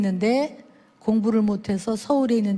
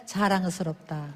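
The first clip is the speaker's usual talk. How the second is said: soft slow praise; 5 semitones lower, 6 dB quieter than usual. Shown as a demonstration. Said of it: "한번 해볼까요".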